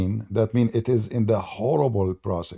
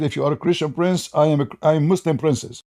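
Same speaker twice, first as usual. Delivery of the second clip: a hint of a mocked girl; mild girly voice; 6 semitones higher than usual. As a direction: retell it lightly in a girl's tone. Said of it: "He said".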